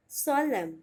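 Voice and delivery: "solemn" said as SOL-um, silent n; solemn ending on a plain um, no final n sound; correct pronunciation. Shown as a demonstration. Teacher to students, careful correct pronunciation. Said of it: "सोलेम नहीं बोलिएगा".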